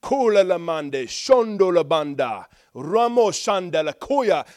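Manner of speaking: bold, loud declaration in tongues; authority. Shown as a demonstration. Preacher demonstrating releasing authority in tongues, bold declaring prayer. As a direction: proclaim each phrase forcefully, stretching the last. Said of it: "there's authority from God that you're releasing".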